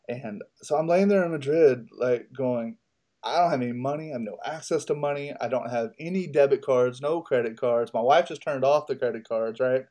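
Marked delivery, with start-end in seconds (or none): 3.2-7.9 put-on drunk crying. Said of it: "And I'm crying".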